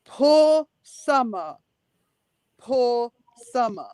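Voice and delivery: drawn-out mock pity, long pauses. Co-host imitates how he mocks sympathy for Summer, mocking. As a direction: imitate him mocking, very slowly. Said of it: "But he's mocking her".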